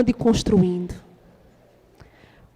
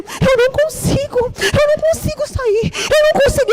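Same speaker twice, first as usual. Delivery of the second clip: high, crying voice breaking on each line; sobbing, pleading; tearful panic; 12 semitones higher than usual. Retold or imitated. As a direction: relive the moment you can't leave the house. Retelling panic attack in tears.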